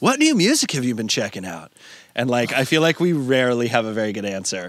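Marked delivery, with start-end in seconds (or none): 0.0-1.7 put-on swooping podcast-host interviewer voice. Guest mimics how podcast hosts always ask them something, in podcast host voice. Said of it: "that was my podcast host voice".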